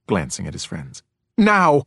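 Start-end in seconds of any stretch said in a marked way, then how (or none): 1.4-1.8 loud, high sharp order; snapping. A narrator's reading. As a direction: snap it as a command. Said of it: "she snapped".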